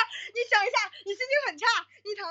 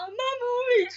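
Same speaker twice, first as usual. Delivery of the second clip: mock whiny child; 8 semitones higher, faster than usual. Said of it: "老刘是你妈妈".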